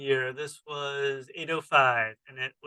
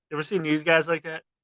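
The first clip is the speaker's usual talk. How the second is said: ordinary talk, nothing marked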